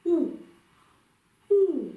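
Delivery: high, loud hooted "ooh", falling; short, free falling hoot; small-lipped rounded "ooh". Shown as a demonstration. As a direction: open inside, lips small on a short "ooh". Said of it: "Les lèvres restent petites".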